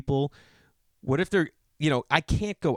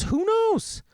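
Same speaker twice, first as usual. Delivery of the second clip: mock ominous. Real, not acted. Dramatic rhetorical question.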